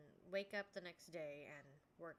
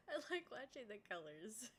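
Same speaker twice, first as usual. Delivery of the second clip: laughing through the words; 4 semitones higher than usual. Real, not acted. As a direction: giggle it out. Repeats line with laughter.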